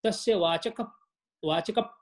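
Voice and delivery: "Vachaka" closed on a p, then a pause; broken-down demonstration. Shown as a demonstration. Teacher breaking down the verse, "Vachaka" ending on a held p. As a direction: stop on "Vachaka" as vachakap, lips shut. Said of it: "see how it goes".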